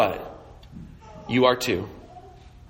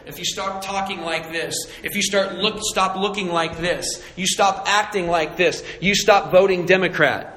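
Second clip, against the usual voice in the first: mock Christians; 4 dB quieter than usual. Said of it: "you know how Christians do it".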